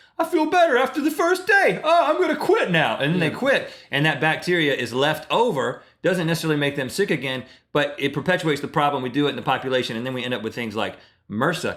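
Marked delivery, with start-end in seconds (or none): 0.2-3.0 goofy, silly put-on voice pitched very high. Acting out people who quit their antibiotics early, in a silly put-on voice. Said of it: "(silly voice)".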